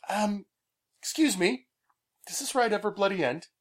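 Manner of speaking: high, fake-polite mock British complaint; bad Pete impression. Pete asking if the ride ever ends, a hammed-up high impression. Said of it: "my bad Pete impersonation".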